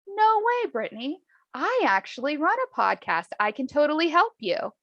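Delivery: high-pitched, imitated amazement; excited neighbor. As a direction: act out an eager offer of help. Neighbor's delighted reply, acted out.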